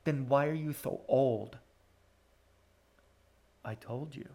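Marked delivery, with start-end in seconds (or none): 3.6-4.3 tired, drained sigh of a voice; weary sorrow. A narrator's reading. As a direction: let the words sag with exhaustion. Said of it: "he said wearily".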